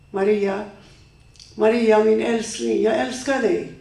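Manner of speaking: ex-husband calling her name, then pleading. Acted. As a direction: beg her lovingly, calling Maria.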